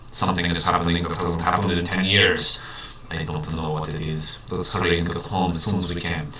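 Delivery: a hint of a Russian accent, low and hushed; lightly voiced Russian doctor. Doctor Roy urging his bird home in a light Russian accent. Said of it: "that's not actually a Russian accent".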